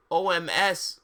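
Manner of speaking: loud, exclaimed initials; mock cry. A narrator's reading. Vampire exclaiming in passion, mock cry. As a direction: call out the letters loudly, mock excited. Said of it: "cried Vampire".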